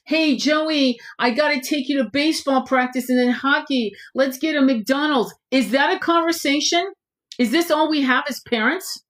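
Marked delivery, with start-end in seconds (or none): 0.1-5.3 mock busy parent. Mocks a rushed parent.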